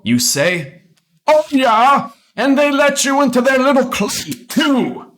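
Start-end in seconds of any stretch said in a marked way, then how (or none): 1.3-5.1 slightly amused. Acted. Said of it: "slightly amused".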